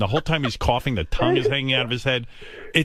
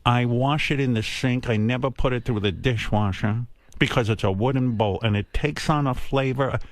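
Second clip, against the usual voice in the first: lecturing mother. Retold or imitated. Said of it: "It was, it was a lecture".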